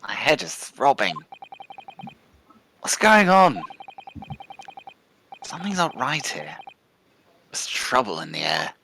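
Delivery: groggy, a little lost, voicing a dazed detective; freshly knocked out, unsure where he is; dazed waking detective.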